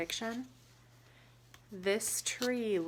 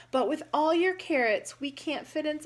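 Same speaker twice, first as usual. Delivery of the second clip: bewildered; 7 semitones higher, 8 dB louder than usual. Acted. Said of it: "a bit bewildered".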